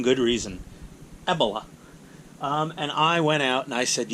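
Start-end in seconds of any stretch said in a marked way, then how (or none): 1.3-1.6 "Ebola" with stress on the first syllable, falling; misplaced stress. Shown as a demonstration. Repeating "Ebola" on purpose, stress on the first syllable. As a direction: hit the E of "Ebola", EB-uh-luh. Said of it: "wrong emphasis on the wrong syllable".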